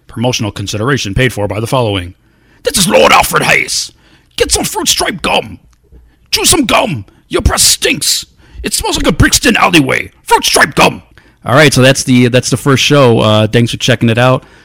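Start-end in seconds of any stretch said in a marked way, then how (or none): 2.7-11.1 bad, high-pitched, swooping sing-song announcer-style voice. Reading a sponsor promo on his show, doing a bad Lord Alfred Hayes impression. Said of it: "It's not a good impression".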